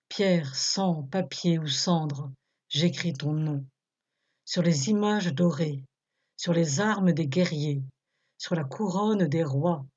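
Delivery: measured recitation, each line falling at the end; poem recitation. Acted. Presenter reciting Éluard's opening stanzas to listeners, measured recitation. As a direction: recite the stanzas evenly, letting the refrain sink.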